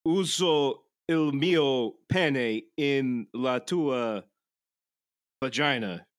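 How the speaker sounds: slow hammed-up Italian phrase; mock Italian. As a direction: drag out the Italian words slowly. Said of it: "do the accent as offensive as possible".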